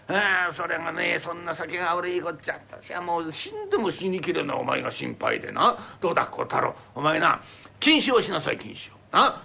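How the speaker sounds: a lightly voiced old father, coaxing and scolding; stern old father. Father urging his son to swear off sake, lightly voiced. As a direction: press the son gently to quit drinking.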